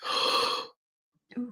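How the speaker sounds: slow, calm channeling voice; channeled spirit guide. Acted. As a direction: speak as a gentle guide spirit. Channels her guide Shay.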